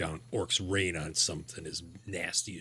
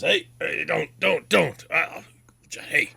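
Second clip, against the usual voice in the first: panicked plea; 9 semitones higher, 7 dB louder, slower than usual. Acted. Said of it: "he goes".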